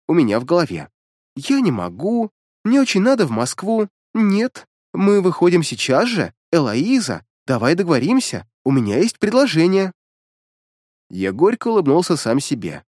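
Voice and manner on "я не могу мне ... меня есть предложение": put-on higher, teasing little-girl voice; mocking childish voice. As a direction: mimic him in a childish voice. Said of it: "принялась отыгрывать своим детским голоском".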